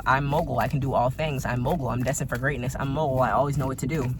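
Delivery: a quiet reassuring chant on the drive home, still mad; self-affirmation mantra. Retold or imitated. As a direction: talk yourself down with a quiet mantra. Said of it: "I'm talking to myself".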